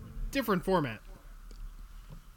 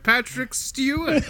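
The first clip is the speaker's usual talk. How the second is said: Patrick Stewart impression; 6 semitones higher, slower than usual. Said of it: "I can just switch into it".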